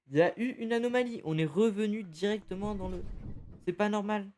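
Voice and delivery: panicked realisation of a glitch; alarmed. Real, not acted. Alarmed at respawn loop.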